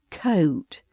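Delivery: "coat" with a gliding British O; O diphthong. Shown as a demonstration. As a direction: let the vowel in "coat" move from uh towards oo. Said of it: "the diphthong sound of O".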